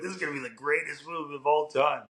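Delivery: retelling eager anticipation with a lifted pitch; recalled excitement, lightly acted out; excited anticipation. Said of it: "I was so excited to watch this movie".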